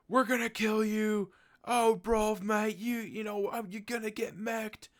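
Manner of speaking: put-on over-the-top British accent, way up high; British groupie voice. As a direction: ham up a cocky British lad making threats. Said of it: "a British, like, groupie".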